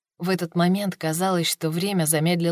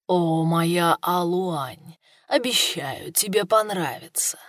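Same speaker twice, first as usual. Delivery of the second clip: purring; 2 semitones lower, slower than usual. Acted. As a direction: purr it seductively. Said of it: "промурлыкал генерал Хуа".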